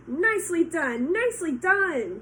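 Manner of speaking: high, loud excited goose; goose cheering. Acted. Goose cheering Wilbur's dodge, high and loud. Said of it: "cried the goose".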